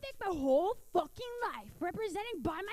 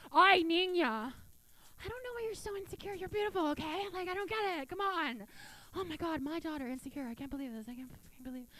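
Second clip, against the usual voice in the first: Cuban mom. Retold or imitated. Mom answering the daughter.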